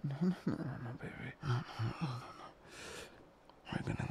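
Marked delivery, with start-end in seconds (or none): 0.0-2.5 hushed soothing coo; calm her like a frightened animal; cooing to a scared pet. Acted. Soothing captive who is crying.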